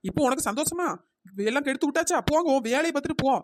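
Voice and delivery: mildly angry, reproachful rebuke; annoyed telling-off. Acted. Stall owner to woman who spoiled business, annoyed telling-off. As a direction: tell off the troublemaker and send them away. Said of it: "அவட்ட ஏன் கோவப்படுறா".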